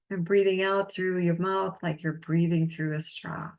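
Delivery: calm, unhurried breathing guide; guided breathing. Acted. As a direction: lead them gently through each breath. Leads a breathing exercise.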